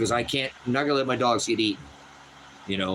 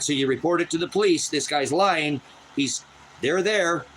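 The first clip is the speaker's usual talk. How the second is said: indignant; 6 semitones higher than usual. Real, not acted. Venting about the police.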